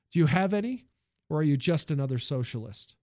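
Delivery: demanding tycoon questioning; stern industrialist. Acted. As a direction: probe him like a stern boss. Ford questions the hero.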